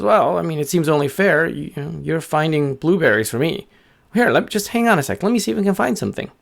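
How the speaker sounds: high, chatty bird voice; helpful little bird. Acted. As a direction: offer help as a small bird.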